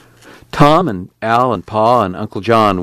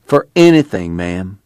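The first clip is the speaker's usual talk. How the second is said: lightly voiced nervous clerk; slower than usual. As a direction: plead the rule, afraid of getting canned. Clerk voiced in read story.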